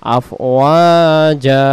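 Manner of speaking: slow আফওয়াজা with a held জা; say it together. Shown as a demonstration. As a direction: lead the class in আফওয়াজা. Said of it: "সবাই বলেন".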